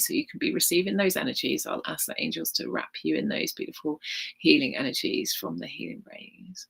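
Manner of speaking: soft, hushed healing guidance; guided meditation. Acted. Healer guiding the group through a meditation, hushed. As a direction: softly wrap them in healing light.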